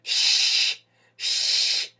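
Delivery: sh bright, lips spread in a slight smile; bright double esh; bright soft shch. Shown as a demonstration. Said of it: "which is always a bright sound".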